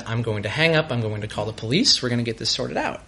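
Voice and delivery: low, soft and steady; very calm. Retold or imitated. Telling his ex he will call the police, very calm. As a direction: calmly take control, voice dropped low. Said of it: "I just, like, very calmly said".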